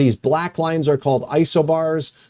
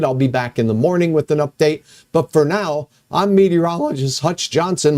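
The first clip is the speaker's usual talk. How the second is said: crackly voice. Real, not acted. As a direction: voice crackling up, a bit hoarse. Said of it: "My voice is crackling up".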